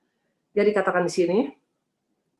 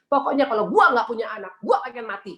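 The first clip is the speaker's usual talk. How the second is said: mock ultimatum, pitched higher; imitated threat; 4 semitones higher, 3 dB louder than usual. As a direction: act out a wife threatening her husband, voice raised in pitch. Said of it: "tapi ngancam". (menirukan istri yang mengancam, nada lebih tinggi)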